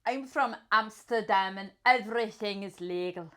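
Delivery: attempted Dutch accent, drifting toward Scottish. Player in accent roulette, wobbly Dutch accent. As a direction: try a Dutch accent that slips.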